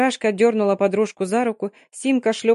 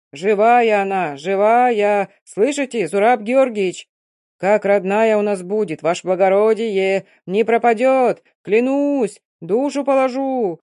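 loud call to a departing ship; shouting after ship; 4 dB louder, slower than usual. Acted. Men yell after the destroyer, shouting. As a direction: yell it across the water. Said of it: "во всю мощь орали".

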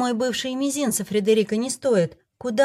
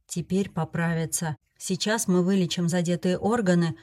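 reassuring. Acted. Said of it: "успокоил меня первый целитель".

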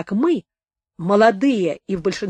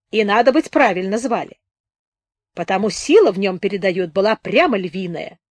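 thin-faced wounded storyteller; 2 semitones higher than usual. Acted. Narrator voices Сухолицый telling his tale.

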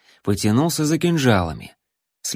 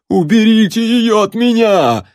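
much higher, louder howl of fear; terrified scream; 11 semitones higher, 7 dB louder than usual. A narrator's reading. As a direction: scream for someone to save you. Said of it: "в ужасе завопил мужичок".

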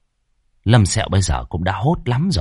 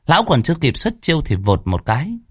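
usual speaking voice

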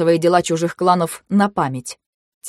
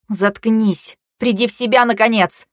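quiet bark; 4 semitones higher than usual. Acted. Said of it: "рявкнула я тихо".

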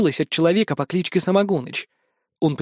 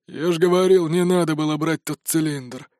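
mild soft drawl. A narrator's reading. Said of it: "мягко протянул дед".

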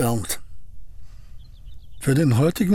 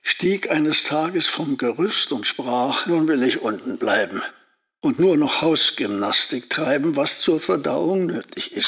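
poem recital. Acted. Busch recites his poem.

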